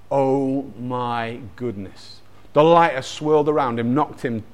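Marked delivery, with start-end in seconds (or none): 0.1-2.2 low, soft and drawn out; hushed awe. Real, not acted. Preacher reacting to Jesus revealing himself, in hushed awe. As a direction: let it sink in slowly, hushed.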